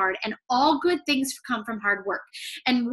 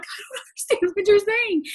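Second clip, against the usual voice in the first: higher, laughing through "I don't understand"; laughing confusion; 8 semitones higher than usual. Retold or imitated. Student answering her professor, higher with a laugh. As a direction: giggle helplessly as a confused student. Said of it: "And I'm like".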